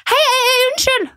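high calling-out voice, stranger trying to get attention. Retold or imitated. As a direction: shout after someone in the street. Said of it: "der en dame sier sånn". (dame roper etter henne i sentrum, høyt og ivrig rop)

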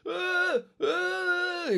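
very high strained shouted grunts; yelling over music. Retold or imitated. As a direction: yell to be heard over the music. Yelling over loud bar music.

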